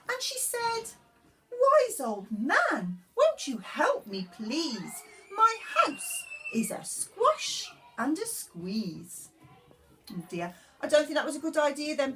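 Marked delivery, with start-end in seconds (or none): 1.5-9.3 put-on high, pleading old lady voice; a fretful little old lady begging for help. Old lady's plea.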